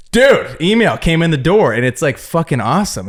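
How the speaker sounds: imitating a pal bursting in with news; retold excitement. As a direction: play up the big news, then ease off. Retold friend bursting in with good news.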